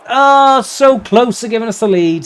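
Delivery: near miss groan. Real, not acted. Groan after hitting the bar.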